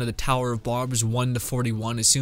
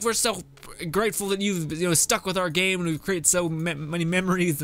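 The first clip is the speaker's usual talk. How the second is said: mock grateful developers; 4 semitones higher than usual. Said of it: "to be like".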